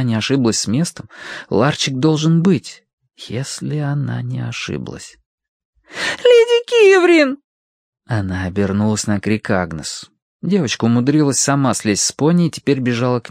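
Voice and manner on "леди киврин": put-on high, slow child's call; calling out long. A narrator's reading. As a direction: call her name out long.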